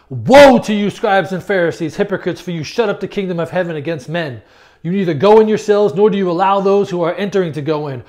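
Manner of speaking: declaimed verse with loud, hammered woes; preacher proclaiming a rebuke; forceful scripture reading. Acted. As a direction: thunder each woe, then read on firmly. Reads out the woe verses.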